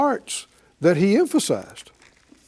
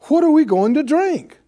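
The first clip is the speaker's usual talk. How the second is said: high, louder mock whine of thirsty people; whining complaint; 8 semitones higher, 4 dB louder than usual. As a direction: act out the people's anxious griping. Preacher voices the griping Israelites.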